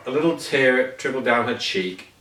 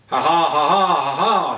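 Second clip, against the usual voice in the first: a joyless ha ha ha, lightly voiced; forced, gloomy laugh with no fun in it; doleful ha ha; 3 dB louder than usual. A narrator's reading. Miss Giggles tries to laugh on request, mildly doleful. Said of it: "she said dolefully".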